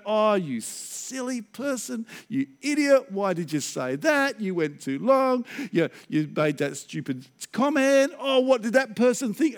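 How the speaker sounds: mock exasperated self-scolding, drawn-out words; self-berating. Pastor berating himself on the drive home, mock self-reproach. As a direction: act out beating yourself up. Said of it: "I'm beating myself up".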